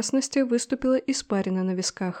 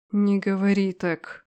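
медленно и строго; сдержанный строгий запрет; строже; 2 semitones lower, slower than usual. Acted. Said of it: "Голос Дерейтера стал строже". (генерал строго одёргивает невесту, медленно)

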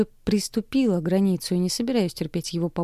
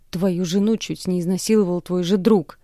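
louder accusing shout; yelling; 4 dB louder than usual. Acted. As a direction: shout at the father. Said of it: "ору на него".

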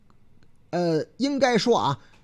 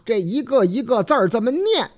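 word-by-word reading; 4 semitones higher than usual. Shown as a demonstration.

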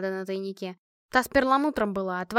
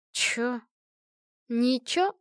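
plain reading voice

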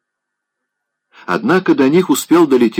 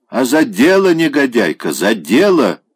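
angry; 4 semitones higher than usual. Acted. Grandmother scolding angrily.

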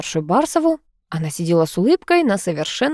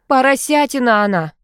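exclaiming; 6 semitones higher, 4 dB louder than usual. A narrator's reading. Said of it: "вдруг воскликнула Дворкина".

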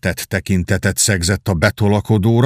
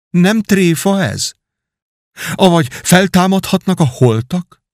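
joyful surprise; 5 semitones higher than usual. Acted. Hugh crying out at his brother's return, mock overjoyed. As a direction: act out stunned delight at a return from the dead. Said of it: "így kiáltott fel".

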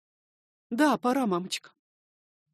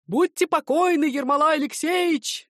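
strained hoarse, higher and louder; 8 semitones higher, 8 dB louder than usual. Acted. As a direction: croak it out through a sore throat. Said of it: "Епиходов говорит сиплым голосом".

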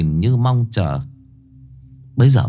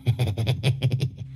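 giggle; 7 dB quieter than usual. A narrator's reading. Boy snickering after confessing a fart, soft giggle. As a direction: snicker at your own joke.

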